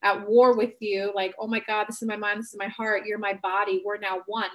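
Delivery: a hushed, sincere sorry to yourself; soft apology to own body. Shown as a demonstration. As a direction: gently make peace with your body. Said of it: "now I'm empowered to say".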